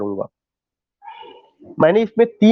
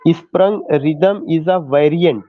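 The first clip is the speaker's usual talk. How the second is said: very slow, word by word, for note-taking; slow dictation; much slower than usual. Shown as a demonstration. Teacher dictating to students taking notes, very slow. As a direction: spell it out so students can write.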